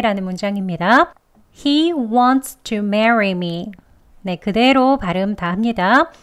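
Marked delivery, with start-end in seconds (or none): 1.6-3.7 He wants to marry me, very slow; slow careful model. Shown as a demonstration. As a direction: spell it out word by word, slowly.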